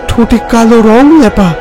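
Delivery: ordinary delivery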